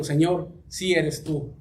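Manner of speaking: "sí eres tú" as a slow statement, no question; affirmation. Acted. Preacher explains the Greek reading to congregation: plain affirmation. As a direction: state "sí eres tú" slowly, as settled fact. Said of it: "que es una afirmación que se está haciendo".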